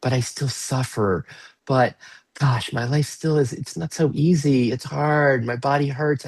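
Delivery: a touch of acted complaint; complaining inner voice. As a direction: voice a part that still suffers. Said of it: "What's your "Yes, but"?".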